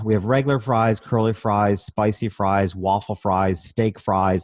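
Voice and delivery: sigh, then reel off the list; sarcastic sigh. Retold or imitated. Waitress lists the fries to a customer, sarcastic sigh. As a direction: imitate a waitress wearily listing options. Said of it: "Almost with a sarcastic sigh".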